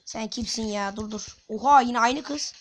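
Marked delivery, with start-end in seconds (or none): 1.5-2.5 surprised. Real, not acted. Surprised at the same opponent again.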